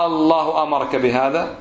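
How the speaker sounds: الله أمرك بهذا with the first A of الله held long; slow question, opening "Aaallahu"; interrogative long alif. Shown as a demonstration. Teacher giving an example question, stretched opening vowel. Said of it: "هذا استفهام".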